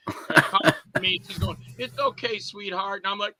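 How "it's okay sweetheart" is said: soothing. Acted. Girlfriend comforting the coward.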